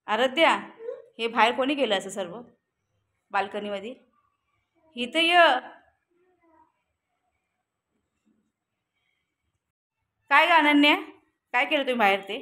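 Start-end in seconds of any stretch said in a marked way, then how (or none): 0.1-0.5 loud call of the name; mother calling daughter. Real, not acted. 5.0-12.4 loud, higher angry call; mother scolding daughter. Real, not acted. Mother angrily summons and questions.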